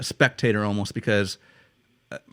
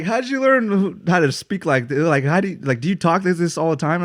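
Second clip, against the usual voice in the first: put-on British accent; 6 semitones higher than usual. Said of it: "Yeah, like".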